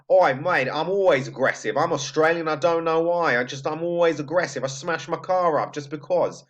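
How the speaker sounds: hammed-up, matey Australian accent; mock-aggressive Australian bloke accent; awful Australian accent. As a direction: do a badly faked Aussie. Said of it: "awful Australian accent".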